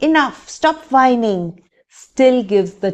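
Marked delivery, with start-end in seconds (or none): 0.0-1.6 annoyed. Retold or imitated. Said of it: "responding with an annoyed remark".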